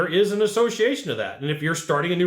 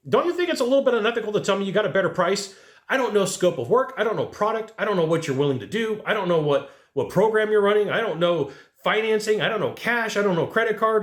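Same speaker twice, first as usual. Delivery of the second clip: heated rebuttal; 4 semitones higher than usual. Acted. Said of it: "rant at customer".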